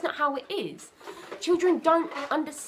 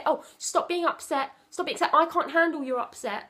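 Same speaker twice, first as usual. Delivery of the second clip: impatient parent; 5 semitones higher than usual. Retold or imitated. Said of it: "don't say".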